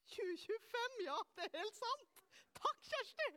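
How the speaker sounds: high, loud, real flustered delight; amused self-correction. Real, not acted. Preacher thanking Kjersti for correcting the year, amused and excited. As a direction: exclaim it, pitch leaping up on the thanks.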